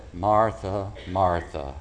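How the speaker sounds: name her twice, tender but firm; mild rebuke. Retold or imitated. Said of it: "I call it a mild rebuke".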